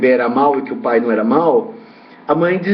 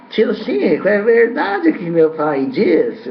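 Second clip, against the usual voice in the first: higher, slow imitation of a small boy; light child voice asking a question; little boy's voice; 4 semitones higher, much slower than usual. Small boy asking Uncle Chico about his dad, in a higher child voice. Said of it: "veio pra mim e falou assim".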